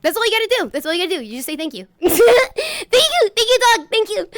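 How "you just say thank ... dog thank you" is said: laughing. Real, not acted. Laughing, teary thanks.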